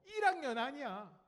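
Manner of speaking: slow, high, loud mock nag; nagging parent. Parent to a second-grader, mock nagging. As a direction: scold slowly like a parent. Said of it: "이 학년이 듣는 잔소리".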